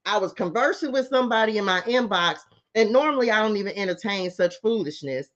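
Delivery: prim, proper diction; playfully posh storytelling; fancy talk. Pretend. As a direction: put on airs like a lady. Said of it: "Eh, that was fancy".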